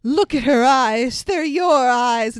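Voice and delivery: loud, drawn-out mock melodrama; hammed-up soap reveal; soap opera melodrama. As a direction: play it like an overwrought soap star. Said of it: "It's very soap opera-y".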